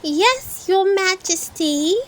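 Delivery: loud, high bellow; bellowing children. A narrator's reading. Children bellowing at the Queen, high and loud. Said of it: "bellowed the children".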